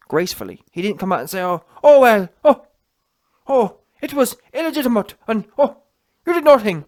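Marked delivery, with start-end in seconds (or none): 1.4-6.8 loud, high-pitched mock complaint; hammed-up excuse-making with big ohs; mock whingeing excuses. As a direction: act out a sore loser making excuses, loudly. Mock quote of sore loser.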